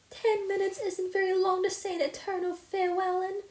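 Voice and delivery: a touch of tears, pitched high; lightly tearful protest. A narrator's reading. Anne tearfully protesting the short farewell, lightly tearful. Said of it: "said Anne tearfully".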